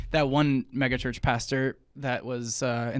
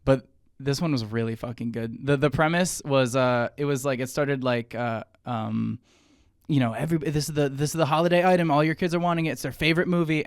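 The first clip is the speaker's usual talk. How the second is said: usual speaking voice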